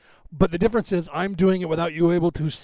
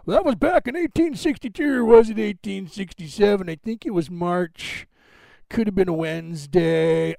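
a hint of a muddled old-timer reminiscing; rambling old man; 2 semitones higher than usual. Mocking how rambling talk sounds: light old man voice. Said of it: "blather-skiting old man who doesn't know what he's talking about".

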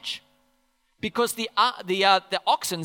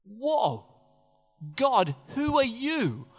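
fearful David. Retold or imitated. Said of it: "It's fear".

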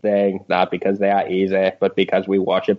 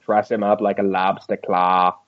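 put-on Valley Girl Ted Kennedy. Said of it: "Valley Girl Ted Kennedy thing".

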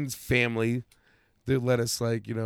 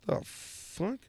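whispered; 9 semitones higher, 13 dB quieter than usual. Retold or imitated. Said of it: "I'm like".

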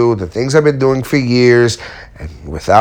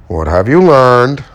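fiance's question; 4 dB louder, slower than usual. Retold or imitated. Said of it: "As my fiance puts it a lot".

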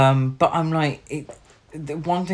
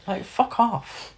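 drawn out, pitched up and mocking; scornful dismissal; 8 semitones higher, 3 dB quieter than usual. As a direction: scoff at it like it's beneath you. Mocking the film's juvenile humour.

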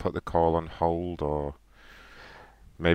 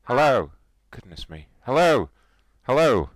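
put-on caller voice; 9 semitones higher, 5 dB louder than usual.

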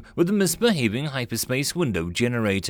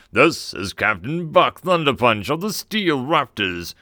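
loud, far-off captain's voice over the speakers; swaggering hero over the intercom; gravelly booming captain; 2 semitones higher, 3 dB louder than usual. A narrator's reading. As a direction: play a swaggering space marine hero on the intercom. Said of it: "a deep gravelly voice loud enough".

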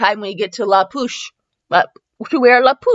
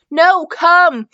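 higher-pitched insistent order; firm command; 9 semitones higher, 3 dB louder than usual. Acted. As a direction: order someone back firmly. Sam ordering Bella back.

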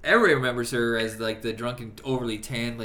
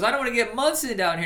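quoting a character; 10 semitones higher, 3 dB louder, faster than usual. Retold or imitated. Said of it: "he goes".

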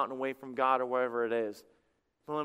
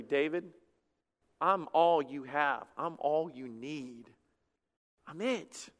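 gentle voice of God; 4 dB quieter, slower than usual. Acted. God speaking gently to David.

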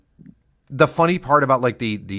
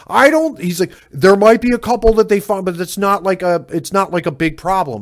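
mocking quote; 7 semitones higher, 4 dB louder than usual.

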